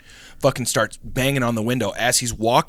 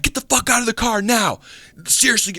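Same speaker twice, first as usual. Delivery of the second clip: acted angry order; 11 semitones higher than usual. Stranger with a pistol orders the girl out, mock angry. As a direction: imitate an armed man demanding they obey. Gunman repeats his order in story.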